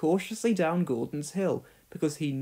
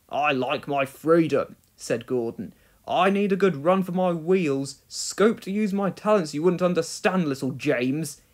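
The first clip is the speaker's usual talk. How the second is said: mildly lofty, self-important; grand. Acted. Gordon boasting to James, lightly grand. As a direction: talk down to the little engine. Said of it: "he said grandly".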